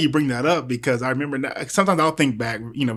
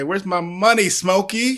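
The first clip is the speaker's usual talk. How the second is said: Big Worm; 6 semitones higher, slower than usual. Retold or imitated. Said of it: "it was a big worm from Friday".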